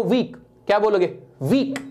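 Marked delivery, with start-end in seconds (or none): 0.0-0.4 वीक as one single sound; one-syllable demo. Shown as a demonstration. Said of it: "वीक को बोल के देखो". 1.4-1.8 वीक out in one go; one unbroken वीक; one-syllable demo. Shown as a demonstration. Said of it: "एक बार में निकली".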